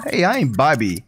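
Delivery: put-on British introduction; mock British accent. Guest repeating his name to the child, mock British accent. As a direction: play a polite comic Briton giving his name. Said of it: "Are you British?".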